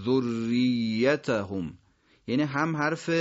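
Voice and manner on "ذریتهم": ذریتهم very slowly, both R and Y doubled; double tashdid. Shown as a demonstration. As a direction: hold the doubled R, then the doubled Y in ذریتهم. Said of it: "دو تا تشدید پشت سر هم". (ذریتهم کشیده، با تشدید روی ر و ی)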